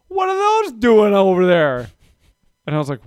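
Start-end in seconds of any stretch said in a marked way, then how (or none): 0.1-1.9 put-on high, puzzled toddler question, louder; higher, louder child voice asking in wonder; little girl's voice. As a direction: play a curious three-year-old. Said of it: "she goes".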